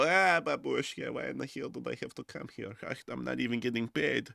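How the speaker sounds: quiet mock lament to babushka; grumbling soldier. Russian soldier complaining about the front, lightly voiced grumble. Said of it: "Some of them go".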